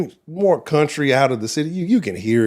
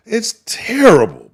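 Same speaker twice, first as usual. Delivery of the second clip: usual speaking voice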